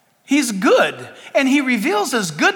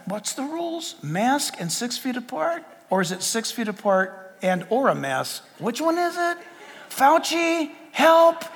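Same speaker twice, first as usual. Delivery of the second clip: softer, puzzled musing to himself; baffled thinking; 3 semitones higher, 4 dB quieter than usual. Retold or imitated. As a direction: puzzle it out, rising to a plea. Acts own baffled thoughts.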